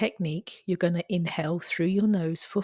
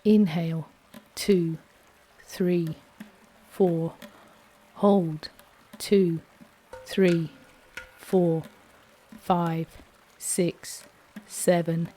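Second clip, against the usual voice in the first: steady, calm counting of breaths; guided breathing count; 3 dB louder, slower than usual. Acted. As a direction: lead the breath count evenly.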